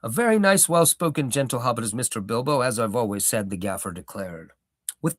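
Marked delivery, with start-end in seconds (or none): 0.0-3.5 old hobbit gardener, lightly voiced, proud; a touch of a rustic old gardener holding forth; Gaffer's voice.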